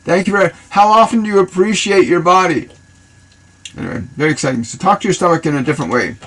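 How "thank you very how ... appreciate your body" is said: loving affirmation. Shown as a demonstration.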